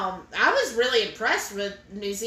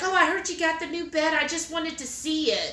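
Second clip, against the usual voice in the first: higher-pitched voice of curious staff; imitated curiosity; 5 semitones higher than usual. Hospital staff dropping in to see the bed, imitated curiosity. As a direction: lightly act out an eager visitor, pitched up.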